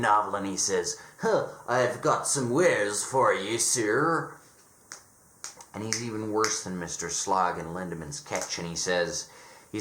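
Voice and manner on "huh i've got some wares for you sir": rough attempt at a Dickensian English accent; lightly voiced Dickensian street peddler. Grubby peddler offers wares to a gentleman, hint of Dickensian accent. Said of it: "straight out of a Dickensian".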